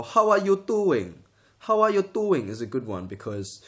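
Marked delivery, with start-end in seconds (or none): 0.0-2.5 high, loud Asian accent with a hard D on "doing"; exaggerated Asian accent, punching the D; mock Asian accent. Shown as a demonstration. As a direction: parody Asian accent greeting. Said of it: "the D's are very good".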